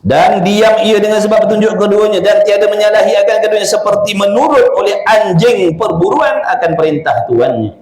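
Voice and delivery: formal recitation of a kitab passage; kitab reading. Acted. Reading aloud from a classical kitab.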